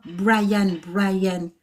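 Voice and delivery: "Brian" prononcé à la française, en deux syllabes molles; langage boudin. Shown as a demonstration. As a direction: dire "Brian" comme un mot bafouillé à la française. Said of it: "c'est un langage boudin". (« Brian » en franglais pâteux)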